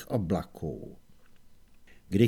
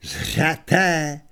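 heroic exclamation; 4 dB louder than usual. Acted. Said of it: "zvolal Kohen a zaujal hrdinskou pózu".

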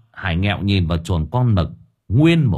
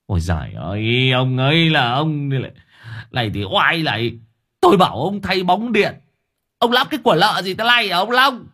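angry scolding; 7 semitones higher than usual. Acted. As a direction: tear into him over the bulbs. Master scolds Long over bulbs.

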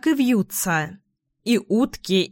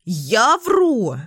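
a touch of outraged sparrow; indignant shout, understated; storybook sparrow, mildly outraged; mild indignant yell; 3 semitones higher than usual. A narrator's reading. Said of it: "орал Воробей Воробеич".

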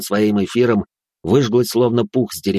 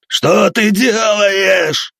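high, slow, loud yell; screaming in pain; 10 semitones higher, 5 dB louder, much slower than usual. Acted. Leader screams in pain, slow and loud. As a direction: stretch the cry of pain. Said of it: "кричал он от боли".

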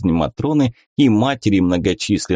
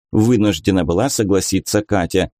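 plain reading voice

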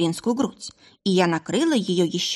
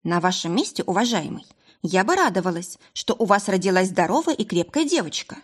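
stern. Acted. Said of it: "сказала я строго".

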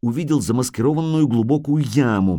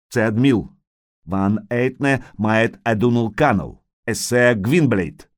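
calling out; slower than usual. Acted. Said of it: "крикнул он снова".

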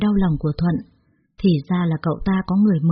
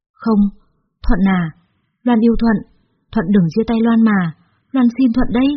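desperate pleading; 3 semitones higher than usual. Acted. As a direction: beg him not to leave you. Loan begs Thuận not leave. (van nài tha thiết, to tiếng)

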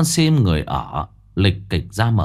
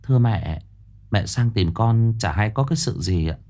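gentle asking. Acted. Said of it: "nhẹ nhàng hỏi".

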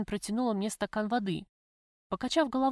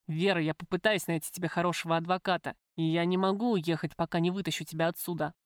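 lightly voiced man, slightly lowered; lover's voice, earnest; 3 semitones lower than usual. Lover explains the visiting rules to the prisoner, earnest. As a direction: speak as the visiting lover, even and confidential.

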